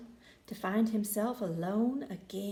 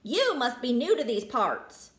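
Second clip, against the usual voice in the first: Pablo voice; 4 dB louder than usual. Acted. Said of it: "he said".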